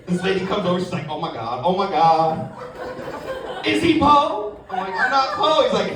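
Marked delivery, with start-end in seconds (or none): 1.1-4.6 mock shocked lady. Lady gasping at him. 4.9-5.6 mock protest. His retort voiced.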